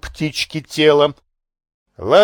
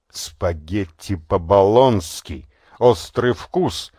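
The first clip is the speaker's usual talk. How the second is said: slow, lower, thinking it over; slow musing; 6 semitones lower, slower than usual. A narrator's reading. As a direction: turn the dish name over in the mind, slowly. Narrator mulls over the dish.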